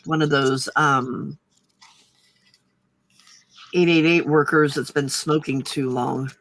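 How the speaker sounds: low husky morning voice; a raspy smoker's voice; smoky voice. Real, not acted. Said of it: "Got the sexy smoky voice".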